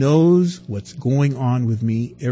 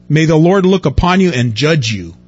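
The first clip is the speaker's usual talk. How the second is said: louder, bitter accusation; accusing crowd; 6 dB louder than usual. Acted. Israelites blaming Moses and Aaron, louder and bitter. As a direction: throw the blame at Moses.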